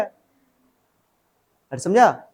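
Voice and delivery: a long pleading "समझा?", very slow; slow stretched question. Real, not acted. Teacher coaxing a silent class, very slow and stretched. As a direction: draw out every syllable, coaxing. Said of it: "teacher checks again, stretched".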